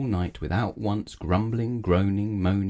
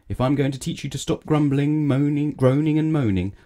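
loud, high wizard's reprimand; stern scolding; 7 semitones higher, 5 dB louder than usual. A narrator's reading. Wizard teaching grumbler a lesson, stern scolding. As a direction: build up the list of offences forcefully.

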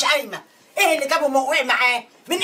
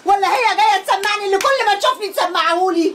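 raised angry voice, meant to be overheard; angry outburst; 4 semitones higher than usual. Acted. Daughter wants her brother's wife to hear, angry. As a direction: let them hear it, fuming. Daughter raging at sister-in-law.

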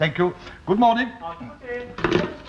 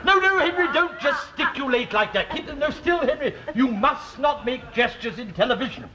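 exasperated scolding; 6 semitones higher than usual. Acted. Bishop scolding Henry's gestures.

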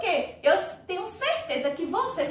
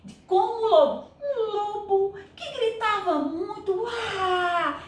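wolf howl; 6 semitones higher than usual. Shown as a demonstration. Teacher showing kids the wolf's cry, mock howl. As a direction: howl like the big bad wolf. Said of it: "isso são emitições".

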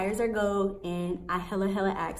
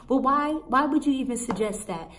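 raised, louder angry demand; snapping; 5 semitones higher, 4 dB louder than usual. Retold or imitated. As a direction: demand an explanation, fed up. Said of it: "I'm snapping at this point".

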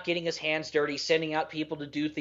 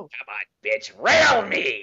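mock seductive; 6 dB louder, slower than usual. Crude joke in put-on voice.

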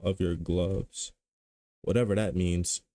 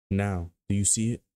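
narrator voice. Pretend. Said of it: "I'm gonna do my little narrator voice".

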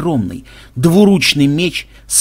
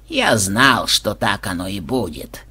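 low, soft, grieving reproach; sorrowful bitter reproach; 6 semitones lower, 4 dB quieter, slower than usual. A narrator's reading. Koschei reproaching the players who failed him, with bitter sorrow. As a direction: let grief and bitter blame sink the line. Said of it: "с великой скорбью и горьким упрёком в голосе".

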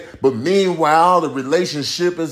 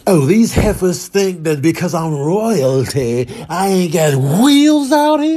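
sassy princess; 3 semitones higher than usual. Retold or imitated. Voices Princess Diana racing the moms.

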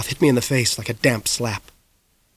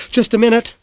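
calling back; 9 semitones higher than usual. Acted. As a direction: shout back to mom from another room. Boy calls back to mom.

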